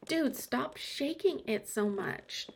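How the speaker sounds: slow annoyed whisper. Acted. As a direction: scold in a hush. Whispered scolding while holding stool.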